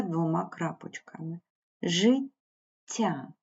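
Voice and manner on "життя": Життя with the тт held long and soft; lengthened soft consonant. Shown as a demonstration. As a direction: stretch the doubled sound in Життя. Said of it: "приголосний м'який, пом'якшений, подвоєний".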